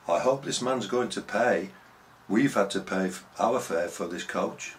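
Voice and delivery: half-shouted complaint; retold shout. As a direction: imitate a woman loudly objecting, easing off by the end. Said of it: "shouted at the top of her voice".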